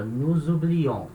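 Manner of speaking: slow "nous oublions", weight on the final ON; stress on last syllable. Shown as a demonstration. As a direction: draw out "oublions" to its strong ending. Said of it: "ela é a sílaba tônica".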